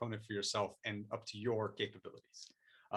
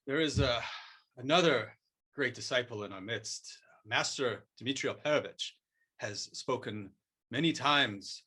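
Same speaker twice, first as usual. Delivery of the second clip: measured, lightly voiced sensei; martial arts Master, solemn. Master praising great disciples of jujitsu, mild mock solemnity. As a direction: teach with grave, spaced-out phrases.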